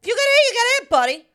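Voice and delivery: loud, high, uncaring warning; callous warning. Retold or imitated. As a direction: shrug off the danger loudly. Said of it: "I'm like".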